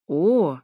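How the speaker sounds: loud mimicked "oh"; mock the moan, a bit too loud. A narrator's reading. Narrator mimics the couple behind the wall, loud mocking moan. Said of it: "передразнил я чуть громче, чем планировал".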